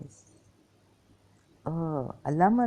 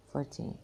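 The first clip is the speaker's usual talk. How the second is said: gasp; 8 dB quieter than usual. Real, not acted. Struggling with pain, counting.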